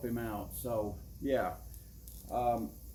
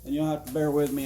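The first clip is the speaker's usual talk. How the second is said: out of breath. Real, not acted. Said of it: "I'm out of breath here".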